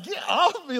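put-on shrieking it like an annoyed teen; retold yell at mom. Teen son yelling at his praying mother, high and loud.

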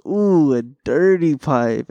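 slow, drawn-out teasing; mock him slowly for it. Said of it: "And he goes".

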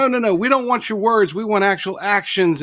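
high, loud, badly faked French accent; pretend French accent. Guest retries the French farmers' refusal, pretend French accent. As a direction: play an insistent protester with a hint of French accent. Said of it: "Pretend like I'm doing a French accent".

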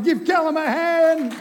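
high laughing call for applause. Real, not acted. Pastor laughing as he thanks Callum, high and loud.

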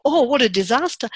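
hammed-up lament of disaster; mock dismay. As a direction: overplay the gloom lightly.

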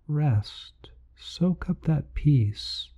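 whispering. Acted. Whispered meditation cue.

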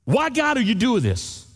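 high, whining plea to God; anguished why. Retold or imitated. Pastor acting the complaining prayer, high and pleading.

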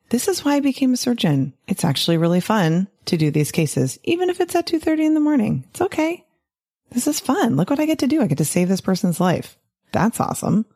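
bright, high pep talk to yourself; cheerful self-talk. Pretend. Surgeon cheering herself on mid-operation, high and excited. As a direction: talk yourself into loving the 2:30 a.m. case.

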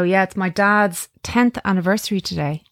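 a real catch in the voice; wobbly voice. Real, not acted. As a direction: voice wobbling with grief. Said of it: "I get wobbly voice even when I say that".

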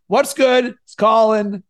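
pep up the intro; upbeat hook. Shown as a demonstration.

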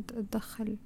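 whispered. Shown as a demonstration. Whispering to viewers about envy creeping in. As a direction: drop to a hushed whisper on تدخل.

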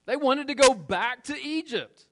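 high, loud preaching burst; fired-up preaching. Acted. Preacher raising the alarm to the congregation, loud. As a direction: throw it out loud to the room.

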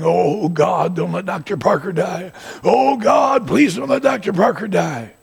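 high, loud, desperate pleading; congregation's loud pleading prayer; pleading prayer cry. Retold or imitated. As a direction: cry out to God for his life.

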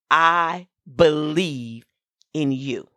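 slow self-affirmation spoken aloud. Shown as a demonstration. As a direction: speak it slowly like a promise to yourself. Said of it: "And say it like that".

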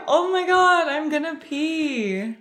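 high-pitched mock giggly wail; retold crying laughter. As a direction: imitate helpless tearful laughing, dragging out the last words. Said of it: "just crying laughing".

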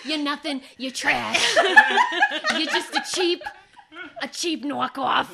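mock taunt through laughter; laughing rant. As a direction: jeer at the show while laughing. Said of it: "please tell them".

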